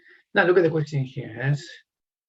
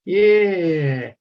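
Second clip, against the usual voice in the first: high, loud burst of relieved thanks; playful relief; 5 semitones higher, 6 dB louder than usual. Real, not acted. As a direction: cheer the student who finally answered. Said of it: "I was about to cry".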